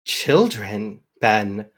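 a hint of a cold, patient villain; villain Alistair calmly pressing Ben for the blade, understated menace; lightly voiced calm villain.

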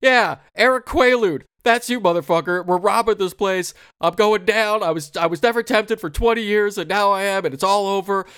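hammed-up defiant crook rant; retold rant. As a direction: rail at him like a crook who's lost it. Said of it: "He's like".

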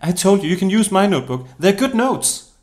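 high, loud reassurance; exasperated insistence. Acted. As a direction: insist to a friend, pitch climbing. Friend insisting on offering her notes.

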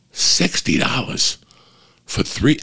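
slow, whispered disbelief at the price; whispering in shock over the popcorn bill. Retold or imitated. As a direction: mutter it to yourself, stunned.

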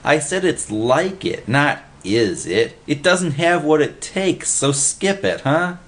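lightly exasperated, calling them to order; commanding. A narrator's reading. Freddy talks his pals out of it, commanding. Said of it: "Freddy commanded".

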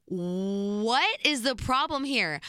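slow, drawn-out indignant question; indignant retort. Retold or imitated. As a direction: stretch it out in exasperated disbelief. Acted indignant group reply to the staffer.

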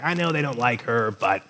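lightly mock lovesick teenage guy; nineteen-year-old guy in love. College boy defending his girlfriend to a friend, mock lovesick. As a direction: play up the smitten college boy a little. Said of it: "In that voice".

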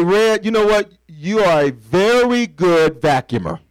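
a hint of warm praise, slowed down; mild gentle encouragement; encouraging praise. Shown as a demonstration. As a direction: lightly build him up with praise. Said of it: "But if I say".

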